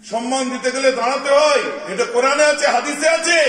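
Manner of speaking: high, loud declaration; preacher proclaiming a rule to the crowd; forceful preaching. Real, not acted.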